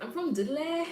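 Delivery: high-pitched Black Country impression; Black Country accent. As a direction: imitate a Dudley local's Black Country lilt. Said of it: "It's a black country accent".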